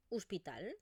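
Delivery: "hospital" said as "uspital", the o closed to u. Shown as a demonstration. Teacher showing the Eastern Catalan "hospital". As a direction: open "hospital" with a u sound. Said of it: "lo que yo pronuncio es una U".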